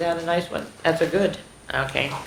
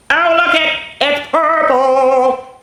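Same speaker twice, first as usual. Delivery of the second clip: high, loud, sing-song delight; a thrilled half-sung gasp of joy; delighted squeal; 11 semitones higher, 6 dB louder, slower than usual. Real, not acted. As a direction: gush over the purple book. Teacher delighted by the book.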